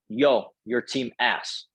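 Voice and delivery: put-on slow, heavy French Canadian accent, flat and blunt; imitating the French Canadian player's broken English as he trash-talks. French Canadian accent, dragged out slowly to the team owner. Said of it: "he has broken English".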